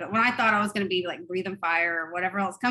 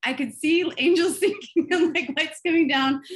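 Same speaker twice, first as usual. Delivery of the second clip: excited; 8 semitones higher, 7 dB louder than usual. Retold or imitated. Mocking her naive vision, laughing.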